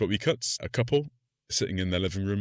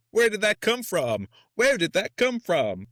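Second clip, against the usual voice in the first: shocked wife; 11 semitones higher, 4 dB louder, slower than usual. Retold or imitated. Wife voiced, shocked at husband.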